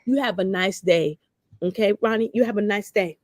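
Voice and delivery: calm sweet reply. Retold or imitated. Her calm new reply to Ronnie.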